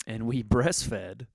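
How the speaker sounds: chuckling through the word breastfed, slowed right down; laughing at the slip. Real, not acted. Husband correcting himself on who breastfed, laughing. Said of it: "She breastfed".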